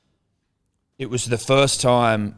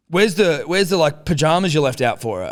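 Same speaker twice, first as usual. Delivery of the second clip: confused dad; 7 semitones higher, 5 dB louder than usual. Retold or imitated. Dad asking about pajamas.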